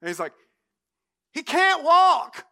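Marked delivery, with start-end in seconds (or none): 1.3-2.5 high, loud, slow comic shout; drawn-out, hammed-up call; calling down from roof. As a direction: shout it down through a hole to those below. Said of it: "I kinda imagine the guy on the roof".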